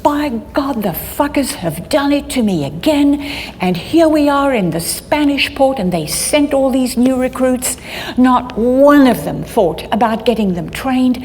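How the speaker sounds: a hint of tearful desperation; imitating bawling. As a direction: mimic a desperate, weeping boss on the radio. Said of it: "he was bawling, absolutely bawling".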